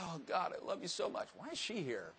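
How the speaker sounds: soft, half-whispered prayer; a hushed prayer broken by a stray thought; hushed mock prayer. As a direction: drop to a near whisper as if praying alone.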